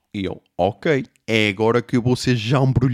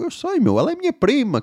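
high mock reply; mocking imitation; 13 semitones higher than usual. Comedian mocks the teen's claim, high mock. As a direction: parrot him back in a high voice. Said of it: "E eu".

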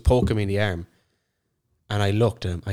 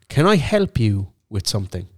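pointed challenge. Retold or imitated. DJ confronting a man pestering them, pointed challenge. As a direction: stress HELP, stretching the question out pointedly.

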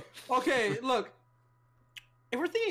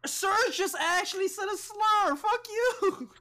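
loud mock-outraged yell; loud slapstick yelps; 9 semitones higher, 3 dB louder, slower than usual. Real, not acted.

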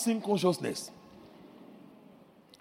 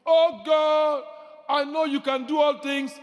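mock timid prayer; 6 semitones higher, 4 dB louder than usual. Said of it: "not these timid prayers".

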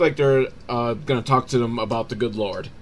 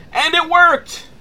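high, loud mock amazement; amazed exclamation; 5 dB louder, slower than usual. Kid who fooled the alien predator, amazed exclamation. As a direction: shoot the pitch way up, incredulous.

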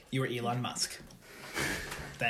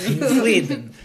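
higher, louder fake accent with laughter; mock Russian-like accent; 7 semitones higher, 7 dB louder than usual. Echoing the co-host's teasing about Sweden, exaggerated fake accent. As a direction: overdo a botched Swedish accent, laughing. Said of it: "that's, like, a Russian accent".

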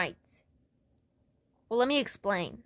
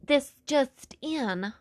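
slow mock bulletin in shaky Australian accent; botched Australian newsreader; slower than usual. Palm reader giving a headline, badly faked Australian newsreader. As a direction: announce breaking news, slipping into Australian. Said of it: "like a newspaper headline would read".

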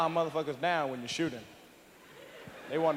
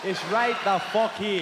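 louder, higher Italian tough-guy voice; mock Italian tough guy; 3 semitones higher, 5 dB louder, slower than usual. Italian guy squaring up to a threat, loud Italian tough talk. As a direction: go full Italian wise guy.

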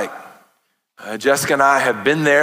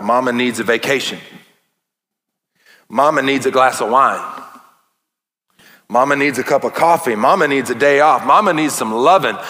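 rising, louder with each line; building list; 4 dB louder than usual. Acted. Pastor riffing on mom memes, building louder. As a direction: build to a punchline.

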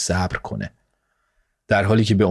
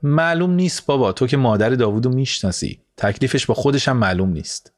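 a higher, exasperated grumble that settles back down; lightly grumbling about the mother-in-law; mild grumbling; 3 semitones higher than usual. Acted. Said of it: "غرغر کنان".

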